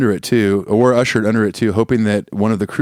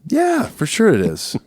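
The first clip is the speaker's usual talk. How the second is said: mock high voice; 13 semitones higher, slower than usual.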